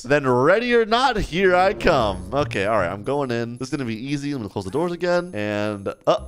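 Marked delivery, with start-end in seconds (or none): 0.0-2.3 high, drawn-out seeker's call; singsong hide-and-seek warning; playful calling out. Pretend. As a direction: announce it to hidden players, ending slow. Seeker calls out to hiders.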